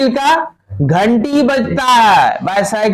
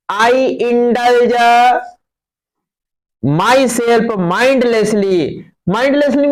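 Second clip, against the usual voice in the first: extremely slow, word by word; slow reading aloud; 3 semitones higher, much slower than usual. Shown as a demonstration. Teacher reading the passage to students, extremely slow. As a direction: dictate each word. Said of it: "rereads the sentence slowly".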